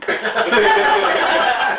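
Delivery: a bright, rising laugh; real laughter. Real, not acted. Teller laughing at the camping fib for the audience.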